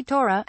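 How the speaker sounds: "Torah" with a plain O and open final A; Israeli pronunciation. Shown as a demonstration. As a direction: say "Torah" the Israeli Hebrew way, stress toward the end. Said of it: "became Proto-Israeli".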